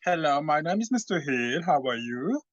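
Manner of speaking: attempted British accent; best British accent. Guest introduces himself on a dare, attempted British accent. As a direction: put on your best British English. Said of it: "do your best British accent".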